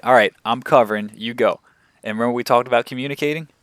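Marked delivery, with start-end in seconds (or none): 0.0-1.6 "All right, I'm covering" called out loud; called command. Shown as a demonstration. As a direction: call it out to your partner loudly. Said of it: "So I said".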